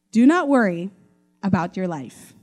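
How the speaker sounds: a hint of Jesus reassuring a friend; gentle Jesus. Jesus speaking to Mitch personally, mildly reassuring. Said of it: "he'd probably speak like that".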